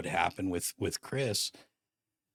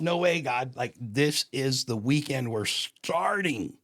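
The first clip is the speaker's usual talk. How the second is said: loud, higher, drawn-out objection; protesting; 5 semitones higher, 5 dB louder, slower than usual. Retold or imitated. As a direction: argue back in disbelief, stretching the words. Acted argument with God.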